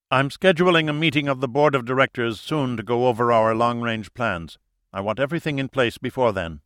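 cold, authoritative orders; commanding leader. Acted. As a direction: brook no mistakes.

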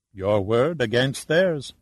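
calm and unhurried, a touch slow. Acted. The official answers Shannon's outburst, slow and calm. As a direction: brush off her anger, unbothered. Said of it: "Matos said calmly".

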